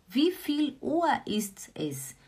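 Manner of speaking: slow whispered repeat. Shown as a demonstration. Teacher whispering the phrase to her students. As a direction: breathe the question out without voice. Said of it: "teacher repeats phrase whispered".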